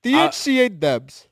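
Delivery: put-on slow, high Mexican accent. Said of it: "Can you do a Mexican accent?".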